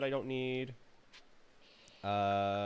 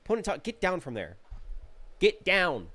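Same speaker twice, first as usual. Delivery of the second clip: raised, higher call to a Pokemon; 7 semitones higher, 5 dB louder than usual. Real, not acted. Gamer calling at Ponyta, loud and high. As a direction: shout it up at Ponyta.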